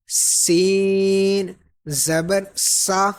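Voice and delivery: سین held long, with a clear whistle; whistling S. Shown as a demonstration. Teacher separating similar letters, سین with a whistle. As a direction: make the S in سین and سا hiss sharply, slowly. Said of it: "سیٹی کی آواز آنی چاہیے".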